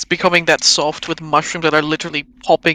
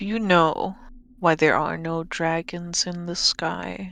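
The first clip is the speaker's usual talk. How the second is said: very soft, eerie, creepy bedtime-story voice; 7 dB quieter than usual. Speaker voices the character Draco, soft Draco voice. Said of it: "Draco's voice is very soft".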